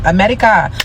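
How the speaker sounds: America in a put-on South African accent, tapped like "Amedika"; mock South African accent. Mocking a singer's arrival in America, imitated South African accent. Mimics the singer saying America, then corrects her.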